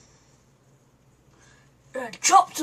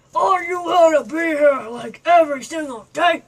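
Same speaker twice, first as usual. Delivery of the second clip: loud shout; 6 dB louder than usual. Acted. Puppet still shouting.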